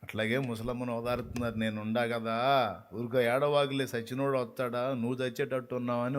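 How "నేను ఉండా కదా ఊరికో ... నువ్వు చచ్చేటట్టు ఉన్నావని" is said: soft consoling. Retold or imitated. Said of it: "ఓదారుస్తుంటే".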